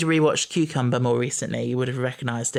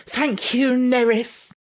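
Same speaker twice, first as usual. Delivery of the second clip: sarcastic; 10 semitones higher, much slower than usual. Retold or imitated. Quoting Donna at Nerys.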